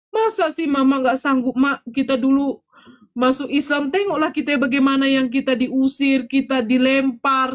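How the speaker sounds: impassioned exhorting. Retold or imitated. Daughter reminding despairing mother of past hardship, exhorting. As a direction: exhort her insistently, drawing out the ending.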